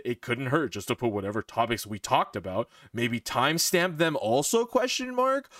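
flat robot-like mimic voice; robotic imitation. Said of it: "why do I sound like a fucking dumbass".

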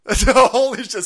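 ordinary talk

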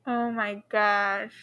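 slow, hushed scared reaction. Real, not acted. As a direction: breathe it out, spooked. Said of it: "I'm scared".

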